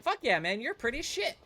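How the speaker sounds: high, loud bro voice; mock bro admirer. Chatter gushing over the streamer, high and loud. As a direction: hype it like an eager fan. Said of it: "And they're like".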